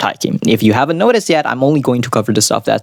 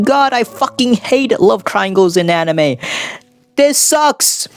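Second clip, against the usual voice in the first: high, whiny impression of a fed-up viewer; mock the complainer, pitched way up; mock annoyed viewer; 9 semitones higher, slower than usual. Imitating a viewer who hates love triangles, mock whine. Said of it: "before you click off saying".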